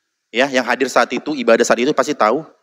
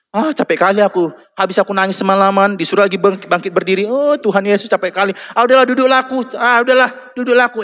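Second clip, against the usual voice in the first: higher, whining and worn out; whiny tired youth; 6 semitones higher than usual. Retold or imitated. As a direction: complain like a dumped teenager. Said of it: "anak muda ini baru diputusin".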